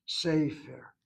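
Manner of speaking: "sefer" with the emphasis drawn onto the first syllable; stress on first syllable. Shown as a demonstration. Teacher concluding the vowel rule, first syllable of "sefer" stressed. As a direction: let the first syllable of "sefer" carry the word. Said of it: "seire draws the emphasis".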